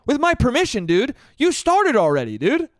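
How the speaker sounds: high, loud disbelief; exasperated at the doctor; incredulous rant. Real, not acted. Disbelief at the doctor's polite permission. Ranting at doctor's odd request.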